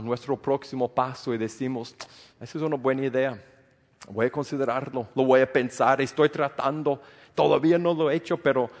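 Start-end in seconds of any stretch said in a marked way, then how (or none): 2.4-8.7 fast, breezy excuse-making; mocking our own fast stalling excuses to God. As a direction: rattle off lazy excuses quickly.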